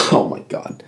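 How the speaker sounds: whispered gasp; breathless after coughing. Real, not acted. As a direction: wheeze it out. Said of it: "hack up a long".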